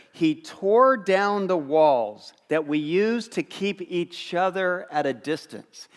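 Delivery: slow, weighty reading of the verse; slow scripture reading. Shown as a demonstration. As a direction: read it slowly, leaning on tore. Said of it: "Here's how Paul starts in Ephesians".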